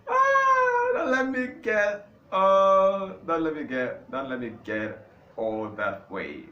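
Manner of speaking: high and loud, catching himself mid-laugh. Real, not acted. Catching himself going off topic, laughing. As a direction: pull yourself back, amused.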